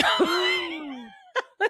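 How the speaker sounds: laughing through the words; can't stop laughing while telling it. Real, not acted. Telling her friend the crying story, laughing hard.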